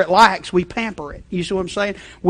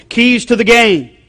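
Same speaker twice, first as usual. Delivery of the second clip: lightly voiced TV analyst, slow; a hint of a football analyst on air; mock sports analyst; 5 semitones higher, 5 dB louder, slower than usual. Preacher imitating a TV analyst for the church, mildly mock. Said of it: "here's what the analyst".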